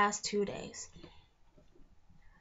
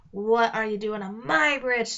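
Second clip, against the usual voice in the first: loud gruff demand; troll questioning the twins on his bridge; 6 dB louder than usual. Acted. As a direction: bark it as a suspicious troll. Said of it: "the troll demanded".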